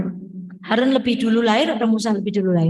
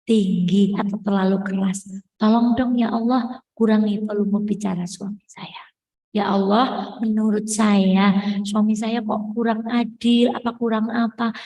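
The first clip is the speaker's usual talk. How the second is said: slow, soft humble prayer; quiet slow model prayer, trailing to a whisper; soft demo prayer; 2 semitones lower than usual. Shown as a demonstration. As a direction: show them how to pray gently. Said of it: "Bilang aja sama Allah".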